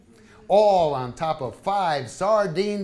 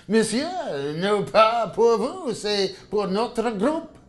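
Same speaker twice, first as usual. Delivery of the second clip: put-on French accent; 3 semitones higher, 4 dB louder, slower than usual. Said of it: "a thick French accent says".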